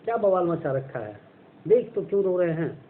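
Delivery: put-on young girl urging her sister-in-law to come look; excited girl. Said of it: "जैसे कहती है कि".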